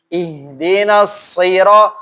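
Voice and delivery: Ihdinas sira- with a heavy, thick s. Shown as a demonstration. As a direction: stretch sira- slowly with a full, thick s. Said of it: "dia tebal".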